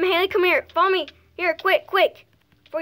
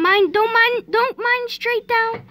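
rising, louder, slower warning; urgent shout; 8 semitones higher, 5 dB louder, slower than usual. Real, not acted. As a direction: call it out, building urgency. Urgent warning while mining.

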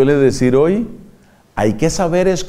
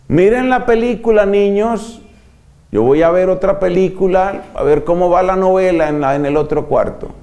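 imitating the careless nun; 3 semitones higher than usual. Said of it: "¿Qué tal esa religiosa?".

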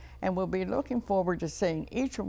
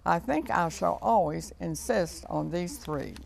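put-on lilting children's verse reading; poem recitation. A narrator's reading. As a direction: read a short rhyme to children. Reads a short poem.

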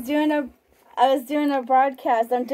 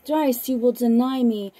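measured, unhurried Bible reading; scripture reading; slower than usual. Acted. Broadcaster reading scripture to listeners, measured and solemn. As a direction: read the Gospel aloud, steady and solemn. Reads Gospel passage aloud on broadcast.

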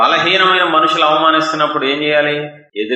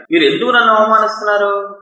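hurt anger; 9 semitones higher, faster than usual. Retold or imitated. Jesus asking why they insult him, hurt and angry. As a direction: cry out wounded by insult. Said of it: "కోపం వచ్చినట్టుంది".

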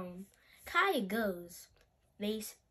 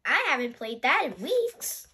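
put-on excited child; 7 dB louder than usual. Child delighted by game idea.

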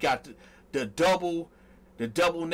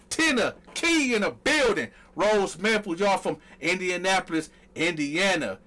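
hype roll call; 4 semitones higher than usual. Real, not acted. Hyped roll-call shout-outs.

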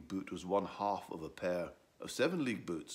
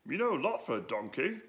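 admiringly; 7 semitones higher, 5 dB louder than usual. Acted. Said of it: "said Edwo admiringly".

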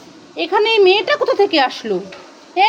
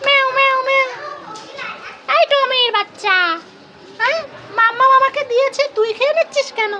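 angry scolding; 8 semitones higher than usual. Acted. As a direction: yell at the thieving cat. Child scolds the cat.

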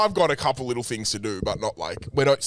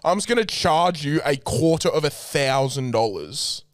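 mock therapist; 3 semitones higher than usual. Mocking a therapist's fee speech.

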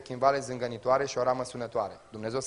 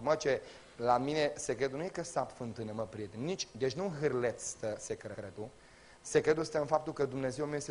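softer, lower musing; quiet inner reflection; 3 semitones lower, 7 dB quieter than usual. Retold or imitated. Isaac reflecting on the secret, quiet and low. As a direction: think it over quietly to yourself.

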